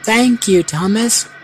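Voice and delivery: high-pitched, lilting thanks; sweetly grateful, pitched well up; grateful purr. A narrator's reading. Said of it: "purred Mavis".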